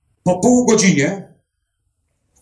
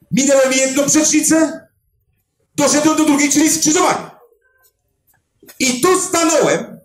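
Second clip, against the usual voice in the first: excited; 7 semitones higher than usual. Real, not acted. Excited retelling of the search.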